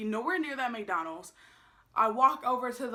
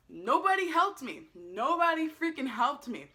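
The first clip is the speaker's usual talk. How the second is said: slow, drawn-out complaint, pitched up; exasperated and emphatic; indignant emphasis; 4 semitones higher, slower than usual. Real, not acted. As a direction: stretch out each word in outrage.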